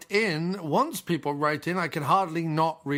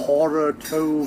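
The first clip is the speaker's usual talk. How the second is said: bad Scottish accent; 4 dB louder than usual. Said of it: "bad Scottish accents".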